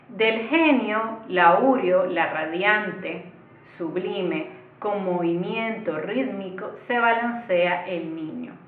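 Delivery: measured reading of verse, stretched words and pauses; verse recitation. Acted. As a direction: recite the lines slowly, phrase by phrase. Reads example verse aloud. (recitación pausada de versos)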